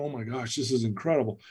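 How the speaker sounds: hushed, retold awe; getting emotional. Man moved while giving a girl his change, softly emotional retelling. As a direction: drop to a soft, moved aside. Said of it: "I'm getting emotional".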